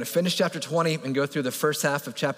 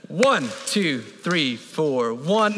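steady cadence; 2 semitones lower, much slower than usual. Shown as a demonstration. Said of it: "All right, ready?".

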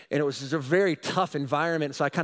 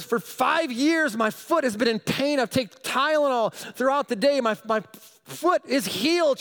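higher, louder, slowed wonder; joyful amazement; 9 semitones higher, 4 dB louder than usual. Retold or imitated. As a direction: marvel at the healed foot. Healed woman's joyful report.

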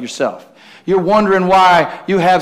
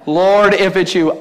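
slow, drawn-out mocking repeat; mock incredulity; 2 semitones higher, slower than usual. Preacher throwing Peter's doubting words back, mock incredulous. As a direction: stretch it out in disbelief.

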